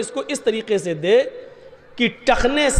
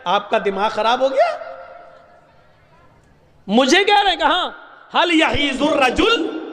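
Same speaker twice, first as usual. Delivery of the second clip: laughing reply; 4 semitones higher than usual. Retold or imitated. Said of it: "ہنس کے کہتا ہے".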